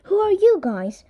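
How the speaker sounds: high startled question. A narrator's reading. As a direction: ask it amazed and high. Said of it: "we all asked".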